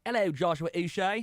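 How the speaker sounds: put-on a faint stab at a Peaky Blinders accent; mock Peaky Blinders accent. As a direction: greet him in a half-hearted Peaky Blinders accent. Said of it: "talking in a Peaky Blinders accent".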